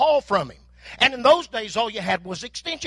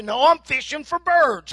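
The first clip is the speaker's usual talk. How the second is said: mock sarcasm; 5 semitones higher, 3 dB louder than usual. Sarcastic reply.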